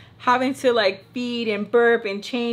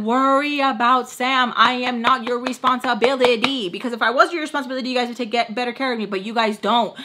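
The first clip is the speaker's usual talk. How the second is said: defiant retort; 2 semitones higher than usual. Retold or imitated. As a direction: throw it back at them.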